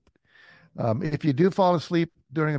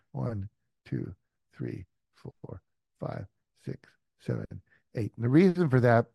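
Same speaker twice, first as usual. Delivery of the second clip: guided meditation. Acted.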